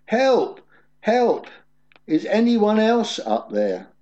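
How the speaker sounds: high, loud cries again; yelling for help. Acted. Jack refusing God's answer, yelling high and loud for help. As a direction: shout past the voice for someone else. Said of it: "Finally, Jack yelled".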